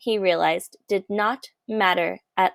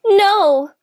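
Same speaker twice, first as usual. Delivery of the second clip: much higher, louder outraged cry; shouted no; 12 semitones higher, 7 dB louder than usual. A narrator's reading. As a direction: stop him at once. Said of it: "called the most very honored head mouse".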